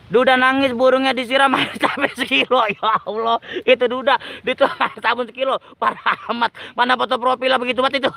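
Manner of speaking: talking through giggles, voice breaking into laughter; helplessly amused, laughing between the words; tertawa geli. Real, not acted. Geli membaca nama akun penonton. (bicara sambil tertawa geli)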